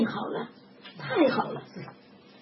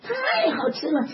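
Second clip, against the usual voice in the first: delighted laugh; 5 semitones higher, slower than usual. Retold or imitated. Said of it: "他说要吃果子".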